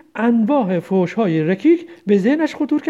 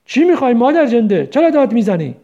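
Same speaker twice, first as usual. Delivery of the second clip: angry; 2 semitones higher, 3 dB louder than usual. Acted. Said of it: "غضبناک پرسید".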